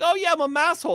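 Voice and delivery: proud masshole impression. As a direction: play a proud masshole in a high voice. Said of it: "They're like".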